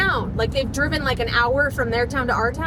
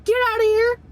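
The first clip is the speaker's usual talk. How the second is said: raised, high imitation of yelling; retold scream; 7 semitones higher, 5 dB louder than usual. Husband chasing the Jeep away, retold scream. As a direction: imitate him yelling, louder and higher. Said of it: "He was screaming and waving his arms".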